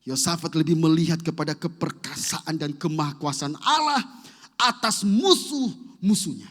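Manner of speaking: loud, rising proclamation; forceful preaching. Acted. (khotbah lantang yang memuncak)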